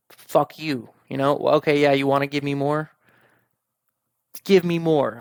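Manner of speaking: defiant rant building to a shout; angry rant. Retold or imitated. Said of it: "I start getting really angry".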